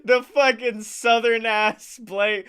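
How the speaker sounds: put-on Southern accent. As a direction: lay on a thick country twang. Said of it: "That's how you talk in Walker County".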